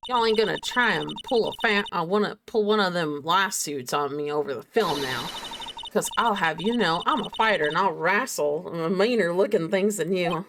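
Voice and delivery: put-on testy country accent. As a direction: complain in a Southern country voice. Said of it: "I started using the country accent".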